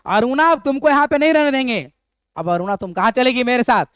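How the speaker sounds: changed stern tone. Retold or imitated. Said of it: "उसका बोलने का जो है ना टोन ... बदल जाता है".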